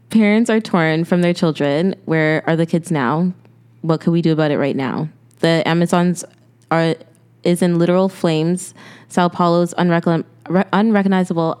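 earnest, even-pitched read of a personal note; reading aloud. Real, not acted. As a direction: read your own heartfelt note steadily. Reads own note aloud.

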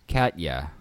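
Katya in default Northeastern Philadelphia accent. Shown as a demonstration. Host showing his default way with her name, Philadelphia accent. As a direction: say "Katya" flatly local, Philadelphia style. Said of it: "Northeastern Philadelphia accent".

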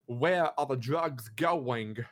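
slow, stretched-out mock interrogation; mock high-pitched voice. Retelling Batman questioning a tied-up villain, slow mock high-pitched voice. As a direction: draw out each word in a put-on voice. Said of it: "he tries to talk, like, a high-pitched voice".

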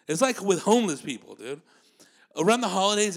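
ordinary talk

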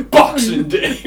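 shouted gleefully through laughter; mock answer. Joking to a friend about answering everything, laughing shout. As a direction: blurt it out laughing like a punchline.

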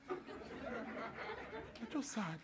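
drawn-out, almost silent sad line; very slow, mock-mournful; mock sad sigh. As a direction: let it fade to a sigh of pity. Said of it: "repeated, fading".

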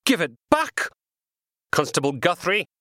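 high, loud desperate shout; angry yell. Acted. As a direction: yell it at the constable in a rage. Man yelling during a struggle.

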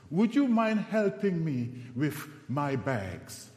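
lightly mimicked flirty request; a hint of a seductive woman asking a favour. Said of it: "And in a seductive voice".

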